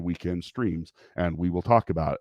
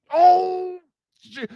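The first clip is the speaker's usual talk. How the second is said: retold embarrassed surprise; 7 dB louder than usual. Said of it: "And I'm like".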